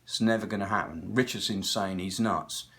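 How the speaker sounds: low, dry dismissive voice, lightly done; a hint of a jaded rocker brushing it off; mock Tom Verlaine. Tom Verlaine dismissing the reunion, in a low mock voice. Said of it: "And he goes".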